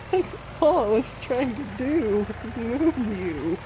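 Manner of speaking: words broken up by laughing fits; helpless laughter. Real, not acted. Explaining the hay bale mishap, laughing helplessly. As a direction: protest while cracking up. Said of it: "sorry for laughing so much".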